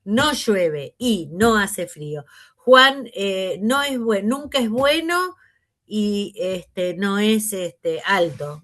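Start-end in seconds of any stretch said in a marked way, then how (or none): 0.0-2.2 "No llueve y no hace frío" slow, each "no" set apart; slow separate negations. Shown as a demonstration. Teacher showing separate negation slowly. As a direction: stress both "no" words slowly. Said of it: "Si niega por separado".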